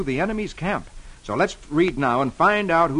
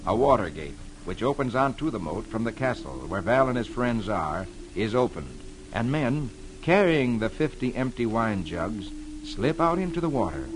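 dramatic radio storyteller reading the funnies; measured, suspenseful tale-telling for young listeners; story narration; 3 semitones lower than usual. A narrator's reading. Comic Weekly Man reading Prince Valiant to boys and girls, dramatic storytelling.

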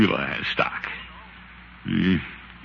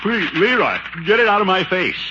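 pained plea; 10 semitones higher than usual. Acted. Pained at nephew's stock.

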